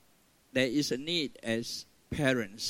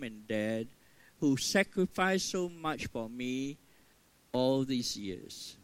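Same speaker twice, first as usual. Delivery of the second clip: prayer; 2 semitones lower than usual. Shown as a demonstration. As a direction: pray it gently as a child bowing. Models a children's prayer.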